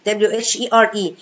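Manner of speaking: spelled out letter by letter. Shown as a demonstration. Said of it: "spells the word out".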